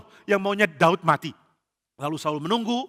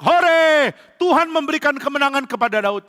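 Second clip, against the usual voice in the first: high, loud shout of joy; cheering crowd; 8 semitones higher, 4 dB louder than usual. Acted. The people cheer Daud's victory with a high loud shout. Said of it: "Seluruh rakyat bersorak".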